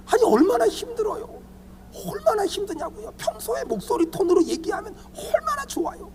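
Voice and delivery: high, softened plea; pleading complaint. Acted. Pastor begging quick-tempered members to ease up, high pleading. Pleads against angry raised voices.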